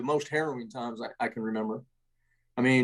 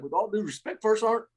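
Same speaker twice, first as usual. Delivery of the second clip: deadpan; 6 semitones higher than usual. Retold or imitated. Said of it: "with a straight face".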